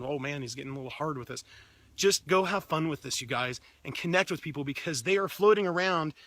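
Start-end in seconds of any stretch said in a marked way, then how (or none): 0.0-1.4 softer, muttered aside; a viewer grumbling under his breath; half-hearted mock complaint from Mike; imitating Mike's grumble. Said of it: "Mike's going".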